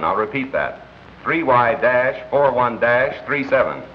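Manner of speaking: measured announcer read, drawing out the license number; radio newscast. Acted. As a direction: report it crisply to radio listeners. Reads radio news broadcast.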